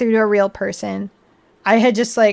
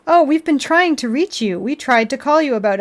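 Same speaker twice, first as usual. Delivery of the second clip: automated phone voice; 3 semitones higher than usual. Retold or imitated. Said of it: "the automated voice was being like".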